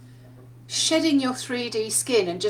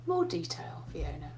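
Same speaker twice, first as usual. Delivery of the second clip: unvoiced whisper of a patient old professor; 6 semitones lower, 10 dB quieter than usual. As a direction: breathe the reminder like a quiet nudge. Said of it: "He goes".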